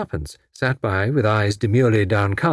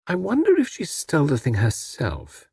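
meditative; 6 semitones higher than usual. Acted. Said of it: "remarked Tuppence meditatively".

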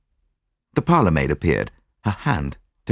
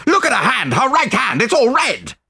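high, urgent exclamation; shocked cry; 4 dB louder than usual. A narrator's reading. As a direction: cry it out in rising horror. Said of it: "I cried".

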